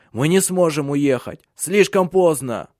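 husband despairing that escape is impossible; desperate cry. A narrator's reading. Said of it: "вскричал он в отчаянии". (отчаянный крик, повышенный голос)

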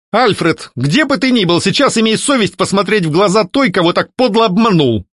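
high, indignant call to a ghost; summoning the ghost, indignant exclamation; exclaiming. A narrator's reading. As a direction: call him out. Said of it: "воскликнула я".

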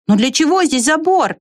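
high puzzled question; puzzled squirrel. A narrator's reading. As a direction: ask it with bright wonder.

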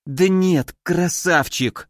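slow words forced through teeth; through gritted teeth. Acted. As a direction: hiss it through clenched teeth in pain. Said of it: "сквозь зубы процедила Кори".

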